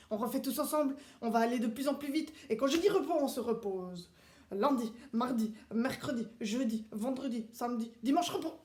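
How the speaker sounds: strict drill-sergeant teacher, clipped commands; drill instructor class. Acted. The speaker drilling the children on the days of the week, strict commands. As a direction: run the class like a military drill.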